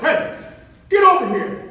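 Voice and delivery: retold manager's shout; calling over. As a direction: yell for a worker to come. Manager calls him over.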